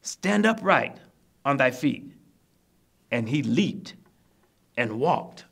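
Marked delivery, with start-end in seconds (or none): 0.0-2.1 raised, higher-pitched biblical command; loud command. Acted. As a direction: call it out as Paul ordering the man up. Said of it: "with a loud voice".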